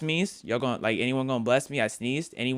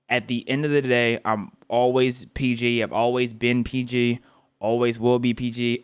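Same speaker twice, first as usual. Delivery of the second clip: louder, firm repeated declaration; emphatic insistence; 3 dB louder than usual. Real, not acted. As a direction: insist you are family friendly.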